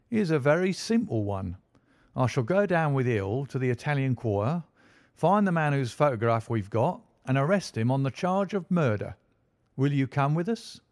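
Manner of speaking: a proud detective boasting of his day's work; smug police inspector. Acted. Lestrade boasting to Holmes about his case, lightly voiced smug inspector.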